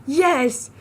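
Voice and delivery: high, loud cheer. Real, not acted. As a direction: punch the air with it. Cheering her show title.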